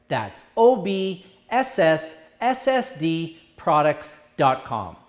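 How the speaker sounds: slow spelled-out letters with stretched S sounds; drawn-out s like a snake. Shown as a demonstration. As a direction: hiss each S slowly like a snake. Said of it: "spelling out the URL".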